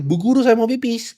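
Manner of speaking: put-on high, childish plea to the teacher; mock obedient pupil. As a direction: whine it like a goody-goody kid. Mocking obedient classmates. (murid penurut minta izin pipis)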